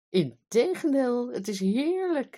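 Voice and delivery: queen delighted, rebutting the king. Acted. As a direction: gush with joy.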